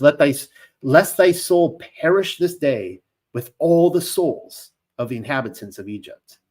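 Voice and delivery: passive-aggressive menace in scripture; laying it down. Retold or imitated. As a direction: read it as a veiled warning. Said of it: "That's like laying it down there".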